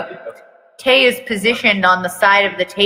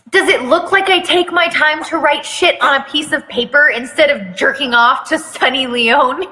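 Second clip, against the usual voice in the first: scornful, raised-pitch sneer at the teacher; scoffing; 5 semitones higher than usual. Acted. Rude student mocking the teacher about homework, scoffing. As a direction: sneer it like the question is beneath you. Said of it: "He scoffs".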